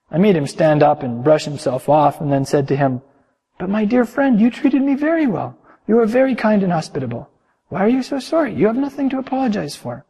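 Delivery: storyteller reading to the congregation; calm sermon storytelling; story narration. A narrator's reading. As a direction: tell it gently, like reading a tale aloud. Reads a long story aloud.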